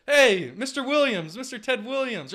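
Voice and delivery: loud, high, drawn-out call to a sleeper; mock lab worker shaking him awake; eager wake-up call. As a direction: rouse him, slow and high-pitched. Staff waking frozen man.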